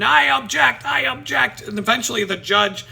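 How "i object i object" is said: high, loud courtroom outburst; imitated indignant shout; mock outraged objection. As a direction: cry out an objection like a self-made lawyer. Defendant interrupts judge, acted.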